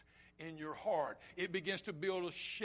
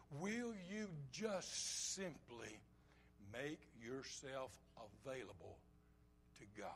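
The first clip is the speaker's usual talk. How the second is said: slow, earnest plea sinking softer and lower; slow right down and let the end drop to a hush; hushed appeal; 4 semitones lower, 9 dB quieter, slower than usual. Real, not acted. Preacher asks listeners to be available to God, hushed appeal. Quiet closing appeal to congregation.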